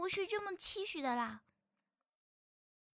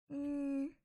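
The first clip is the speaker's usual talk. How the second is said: whisper. Acted. Unvoiced reply.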